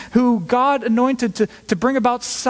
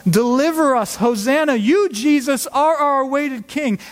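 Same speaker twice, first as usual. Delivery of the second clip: raised, eager Hosanna cry; hopeful crowd cry; 5 semitones higher than usual. Retold or imitated. Crowd greets Jesus on a donkey, eager raised cry. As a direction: call out to the arriving king with hope. Palm Sunday crowd crying out.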